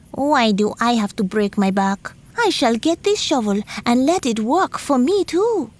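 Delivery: a lazy schemer grumbling about work; the spider plotting to steal the shovel; sneaky spider. Acted.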